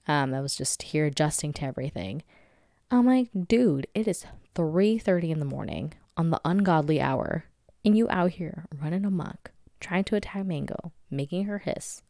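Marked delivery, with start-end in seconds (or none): 3.5-12.0 mock telling-off of a misbehaving pet; exasperated scolding. Owner scolding the cat at three thirty, mildly exasperated. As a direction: complain in disbelief at a troublemaker.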